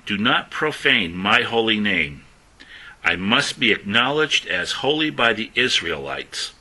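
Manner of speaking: slow, with "not" and "profane" pressed hard; slow, weighty scripture reading; emphasis on profane. Shown as a demonstration. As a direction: make "profane" land heavily. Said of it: "emphasizing the word profane".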